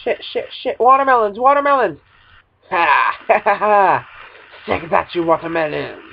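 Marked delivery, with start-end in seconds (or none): 0.8-4.1 giddy laugh after a scare; scared giddy laughing. Real, not acted. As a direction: laugh off the fright. Crash, then laughs.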